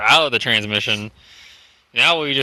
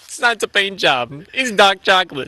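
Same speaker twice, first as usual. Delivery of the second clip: silly high voice; 6 semitones higher than usual. Pretend. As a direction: ham it up high. Joking put-on voice.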